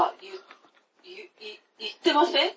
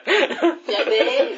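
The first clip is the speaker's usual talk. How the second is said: Kansai dialect; 5 dB louder, much slower than usual. Retold or imitated. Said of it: "みたいな".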